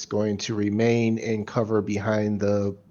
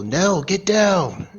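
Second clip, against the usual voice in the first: high, loud drawn-out shout; yelled warning; 9 semitones higher, 9 dB louder, slower than usual. Acted. Gunman warns Nell mid-fight, yelled. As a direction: yell an urgent warning across a fight.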